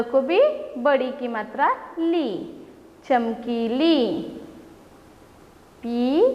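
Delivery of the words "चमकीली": very slow, चमकीली stretched out; teacher modelling चमकीली slowly; slowly blended word. Shown as a demonstration. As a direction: read it slowly so children can follow. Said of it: "और एक बार पढ़ते हैं".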